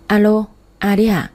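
lightly slurred, tipsy voice; a hint of drunken mumbling; drunk slurring. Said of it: "Tôi nói giọng lè nhè của kẻ say".

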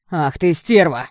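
put-on loud, stung curse at the girl; furious insult. Blond curses the girl who soaked his sneakers, loud and furious. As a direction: spit the insult out in outrage. Blond after cocoa spilled on him.

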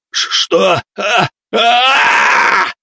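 high pained cries that climb; crying out in pain. Acted. Leader screams as his leg is seized, high and loud. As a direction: yelp as the darkness bites the leg. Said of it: "закричал он".

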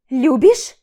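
loud, bitter repeat question; incredulous. Acted. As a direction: throw it back at him. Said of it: "переспросила я". (громко, с горьким недоверием)

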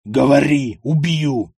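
loud, heavy, graveyard threat; grave voice. Acted. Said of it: "могильным голосом". (угроза могильным голосом)

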